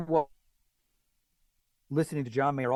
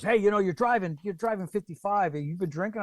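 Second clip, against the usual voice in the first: retold cop questioning; 6 semitones higher than usual. Voices cop at traffic stop.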